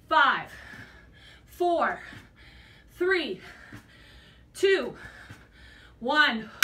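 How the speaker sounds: coach's shouted countdown, each number punched; loud countdown. Real, not acted. Coach pushing the class through the last reps, loud count.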